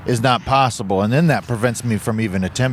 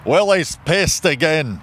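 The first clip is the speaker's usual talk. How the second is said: slow deadpan quote; 2 semitones higher than usual. Retold or imitated. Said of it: "And the guy just go".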